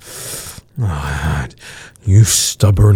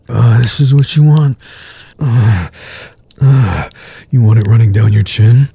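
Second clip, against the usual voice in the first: heated; 4 semitones higher than usual. Acted. Building intensity in the scene.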